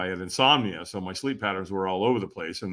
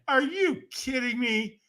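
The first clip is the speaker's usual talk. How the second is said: inner disbelief; 13 semitones higher, slower than usual. Retold or imitated. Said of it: "I was like".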